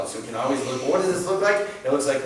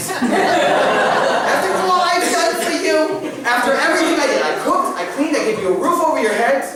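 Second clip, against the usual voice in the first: much higher, shrill mock guilt trip; New York grandma; 13 semitones higher, 6 dB louder than usual. Grandma guilt-trips her child, mock New York whine. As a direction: ham up the guilt-tripping grandma. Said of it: "She's from New York, apparently".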